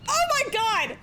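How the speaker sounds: high, thrilled gasp of awe; excited. Real, not acted. Excited reaction to the cutscene.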